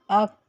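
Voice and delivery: अक with a stop then a breathy kh; whispered release. Shown as a demonstration. Teacher showing the hams of kaf. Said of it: "ख की sound आई".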